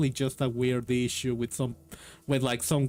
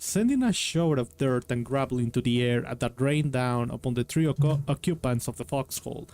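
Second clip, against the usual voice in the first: unhurried storyteller reading; a story narrator setting a battle scene; story narration. A narrator's reading. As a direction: read it like an adventure audiobook. Reads a war story aloud.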